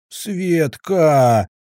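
loud high howl; howling out her name. A narrator's reading. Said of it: "с подвыванием".

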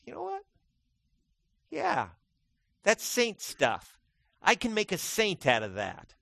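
high, loud, excited exclamation; excited God voice. Acted. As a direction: suddenly burst out delighted.

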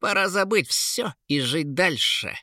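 brash dismissive king's voice; lightly voiced cheeky young king; insolent. A narrator's reading. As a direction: toss it off with open arrogance. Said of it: "нагло заявил Кейн".

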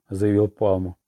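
plain reading voice

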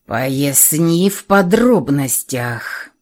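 slow stern command with a faint whistle; whistling dragon command. Acted. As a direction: order it slowly, lightly whistling through the words. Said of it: "с присвистом велела средняя голова".

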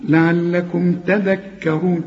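لعلكم تذكرون slowly, ra heavy; careful recitation. Shown as a demonstration. Teacher models the verse for the student. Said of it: "قل لي".

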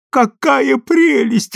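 high, slow delighted cry; new father exclaiming in delight. A narrator's reading. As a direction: gush over the baby. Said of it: "воскликнул Эд".

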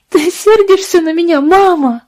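put-on high, tearful child's plea; sobbing child. A narrator's reading. Daughter sobbing to her mother, high-pitched plea. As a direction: plead through tears like a little girl. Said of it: "рыдала девочка".

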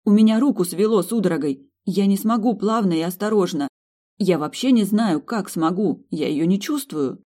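high, loud frightened rush; panicky. A narrator's reading. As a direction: panic over a numb hand. Panicking doctor.

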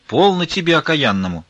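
put-on sharp old woman's cry; shouting. A narrator's reading. Old nun yells at Vasily, outraged cry. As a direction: snap at him, outraged. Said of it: "закричала Веринея".

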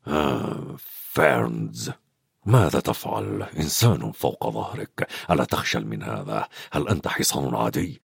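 a deep disapproving rumble at Firenze; growling centaur scolds his friend; angry centaur Bane. A narrator's reading. Narrator voices Bane scolding.

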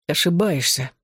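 ordinary delivery, nothing marked

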